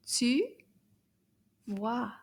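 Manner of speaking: tu vois said slowly, word by word; French tu vois. Shown as a demonstration. Teacher to children, modelling tu vois slowly. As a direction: spell out tu vois as a model for kids. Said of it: "Can you repeat that?".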